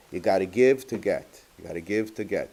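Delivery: lightly imitated English-Yiddish accent; a hint of Yiddish-accented English. Quoting a clever Satmar man's advice, in a light Yiddish accent. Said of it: "English Yiddish accent".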